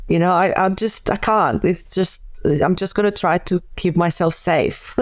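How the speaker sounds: talking with nose held shut; pinching nose. Shown as a demonstration. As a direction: speak while pinching your nose. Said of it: "you know, if you hold your nose".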